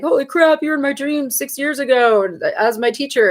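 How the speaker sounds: acted-out excited disbelief; imitated amazement. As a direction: imitate someone amazed to recognise you. Acts out amazed people from dreams.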